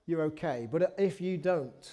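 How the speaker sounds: a hint of a menacing film father; desperate father's threat. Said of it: "he is saying".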